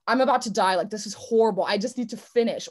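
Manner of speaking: gasping mid-race despair; a hammed-up groan of effort; suffering self-talk. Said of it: "It's like".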